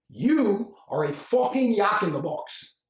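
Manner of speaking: put-on slow, angry Argentine-accented English with a Spanish j for the j; a furious Argentine colleague spitting out the insult in his accent; mad Argentine accent. Argentine affiliate chewing out his American colleague, in a mild Argentine accent. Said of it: "his accent was strong".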